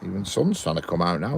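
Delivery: emphasis falls on "trying"; stress on TRYING. Real, not acted. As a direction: lean on the word "trying". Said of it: "emphasis on trying".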